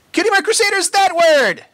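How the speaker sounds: high, loud gleeful cheer; two fillies whooping with joy. A narrator's reading. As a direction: cheer it together, triumphant. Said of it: "cheered Scootaloo and Apple Bloom".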